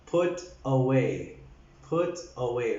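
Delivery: "put away" low and careful, short u; soft "put away". Shown as a demonstration. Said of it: "It's put".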